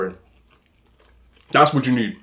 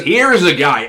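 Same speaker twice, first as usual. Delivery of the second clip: louder broadcaster read of "Here is a guy"; lightly voiced commentator catchphrase; Chris Collinsworth impression; 3 semitones higher, 4 dB louder than usual. Repeating the announcer's catchphrase, a touch louder. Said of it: "He says".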